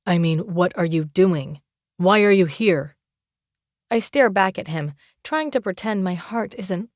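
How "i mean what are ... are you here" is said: angry confrontation. Acted. Calum angrily confronting her.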